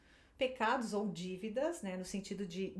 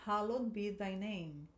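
slow, careful repeat; teacher repeating for students; model line again; slower than usual. Shown as a demonstration. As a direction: say it slowly once more. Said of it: "De novo".

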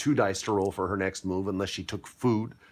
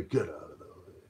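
gruff pirate grunt; 6 semitones lower, 11 dB quieter than usual. Acted. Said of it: "So they kick this body".

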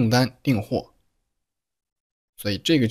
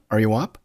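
"Are you up" lifting at the end; rising intonation. Shown as a demonstration. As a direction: raise the voice on "up". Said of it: "并且语调上扬".

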